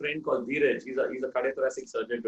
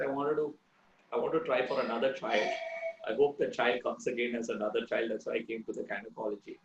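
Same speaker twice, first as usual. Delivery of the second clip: grieving mother; 5 semitones lower, 5 dB quieter than usual. Retold or imitated. Grieving mother explaining, retold.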